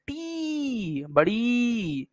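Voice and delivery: टी held very long and high, gliding down; long vowel demo. Shown as a demonstration. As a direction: stretch the "ee" of टी and of बड़ी. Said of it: "उसका sound आ रहा है ना".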